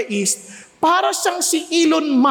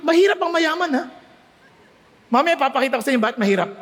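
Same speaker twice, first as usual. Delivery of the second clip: usual speaking voice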